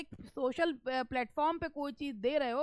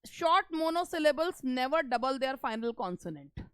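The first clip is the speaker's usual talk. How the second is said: each word of the rule spaced out, very slow; slow rule reading; much slower than usual. Shown as a demonstration. Teacher reading the grammar rule aloud to students, very slow. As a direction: read it like dictation, word by word. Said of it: "उसको समझाऊंगी भी third वाले को जब मैं यहाँ से पढ़ती हूँ".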